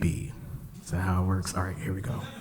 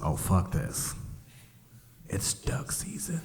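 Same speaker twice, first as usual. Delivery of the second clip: soft, slow whispered trick; lightly voiced sly Bugs; sly hushed Bugs; 2 semitones lower, 9 dB quieter, slower than usual. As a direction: whisper it like a sneaky rabbit.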